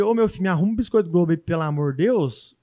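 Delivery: put-on countrified Minas Gerais accent, rushed then dragging out the plea; mineiro accent. Guest shows how a mineiro begs a vendor, mineiro accent. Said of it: "com sotaque mineiro".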